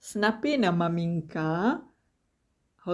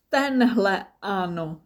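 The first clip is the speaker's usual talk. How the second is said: playful; 3 dB louder than usual. Acted. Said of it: "řekla maminka".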